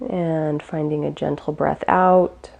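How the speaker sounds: calm, unhurried meditation guide; guided meditation. Real, not acted. Teacher guiding listeners through gentle breaths, calm guided meditation. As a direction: ease them gently through each breath, with long pauses.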